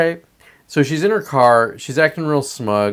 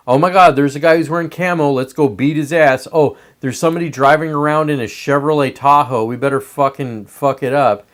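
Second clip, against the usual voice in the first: mocking rioters; 4 dB louder than usual. Mocking the rioters he despises, loud and jeering. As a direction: sneer it out as a dumb mob.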